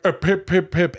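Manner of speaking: laughing, high fake British accent "pip, pip, pip"; a deliberately shitty British accent; bad British accent. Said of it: "he had this shitty British accent".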